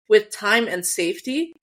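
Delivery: slow, ominous rising read. Shown as a demonstration. Cohost rereading the line as a slow ominous warning. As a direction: let the phrase hang like a warning of danger. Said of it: "But I see it as".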